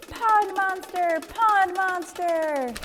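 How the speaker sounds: high, slow fearful wail; panicked wail. Acted. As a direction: wail it while fleeing. Fleeing in fright.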